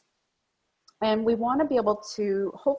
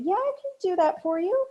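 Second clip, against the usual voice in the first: reluctant yes; 10 semitones higher than usual. Shown as a demonstration. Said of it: "their body language is saying".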